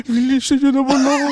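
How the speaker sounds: high, laughing mock plea; pleading toy. Comedian voicing a toy begging to be cleaned, laughing plea.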